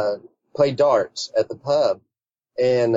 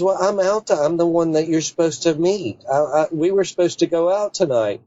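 a higher, lightly voiced Alta; quoting Alta; 6 semitones higher than usual. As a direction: announce it brightly in her voice, higher up. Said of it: "She goes".

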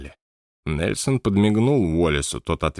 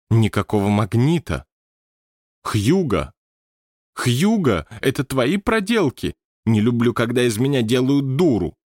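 raised, indignant calling out; angry accusation; 4 semitones higher than usual. A narrator's reading. Scene: medium accusing Hugo of tricking her, indignant. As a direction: call Hugo out, offended.

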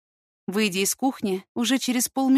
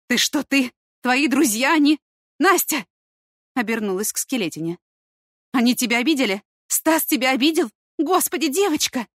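louder, higher, urgent dismay; alarmed questioning; 5 semitones higher, 5 dB louder than usual. A narrator's reading. Mother fears her son's friends hurt the girl, alarmed. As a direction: fire out horrified questions, pitch climbing.

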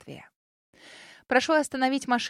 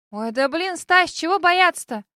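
put-on sassy girl voice; 7 semitones higher, 8 dB louder, slower than usual. A narrator's reading. Second girl scoffing.

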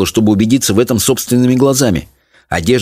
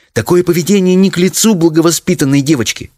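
higher-pitched, scandalised mother; indignant; 9 semitones higher than usual. A narrator's reading. Mother shaming her daughter, indignant. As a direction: scold with raised pitch, indignantly. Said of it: "возмутилась мать".

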